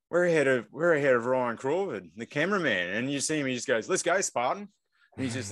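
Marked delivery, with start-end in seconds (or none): 0.1-2.9 higher-pitched mock amazement; retold excited realisation. Runner's sudden realisation, retold. 3.9-4.7 higher-pitched retold rallying cry; imitating pumped-up runner. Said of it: "so he was pumped".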